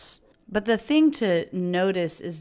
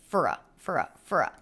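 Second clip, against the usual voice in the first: reduced for a; faster than usual. Shown as a demonstration. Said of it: "For a party of six".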